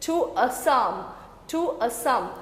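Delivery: "To a sum" slowly in separate beats, then repeated; slow scansion. Shown as a demonstration. Teacher breaking the line into syllables, "To a sum" scanned slowly. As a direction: measure out "To a sum" as a slow metrical chunk. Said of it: "That means stressed, unstressed".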